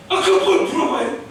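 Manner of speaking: laughing retort. Acted. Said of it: "그럼 제가 막 그래".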